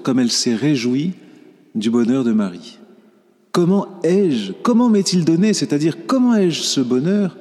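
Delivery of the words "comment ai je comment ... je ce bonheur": wondering exclamation. Acted. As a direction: let Élisabeth's wonder lift the voice. Élisabeth's wondering cry, quoted.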